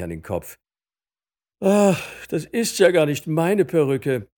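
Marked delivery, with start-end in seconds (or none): 1.6-4.3 loud, high exclamation of dismay; indignant judge's outburst; exasperated judge. A narrator's reading. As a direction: exclaim it, put out by the mistake. Judge finds wrong wig.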